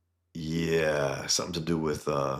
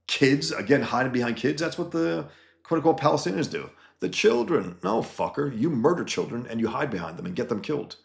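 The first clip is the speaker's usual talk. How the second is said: heated rant; 6 semitones higher than usual. Real, not acted. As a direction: pitch climbing high in real anger. Heated rant against rioters.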